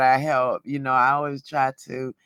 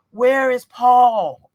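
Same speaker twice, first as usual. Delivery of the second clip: slow, raised half-laughing shout; mock shout; 7 semitones higher, 8 dB louder, slower than usual. Frustrated woman calling for Paul in a mock shout. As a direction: call out for Paul, fed up.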